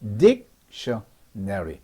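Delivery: 딕셔너리 stretched out, low; slow demo word. Shown as a demonstration. Teacher models 딕셔너리 slowly for students. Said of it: "액센트 요거는".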